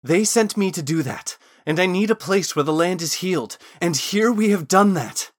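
insistent appeal to be believed; pleading. A narrator's reading. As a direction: plead with her, building in volume and pitch. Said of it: "Thorn was now pleading".

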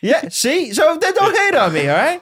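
high laughing protest. Real, not acted. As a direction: laugh through the defence. Defending himself while laughing.

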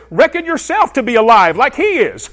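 high, loud preaching cry; emphatic proclamation. Acted. Preacher proclaiming Paul's words to the congregation, emphatic shout. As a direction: proclaim it at full voice, pitched high.

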